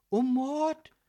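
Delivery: high, loud shocked echo; appalled, voice jumping up; horrified. A narrator's reading. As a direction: repeat it aghast. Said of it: "fragte Lilith entsetzt".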